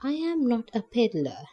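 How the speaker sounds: reassuring. Acted. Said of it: "Nancy called out reassuringly".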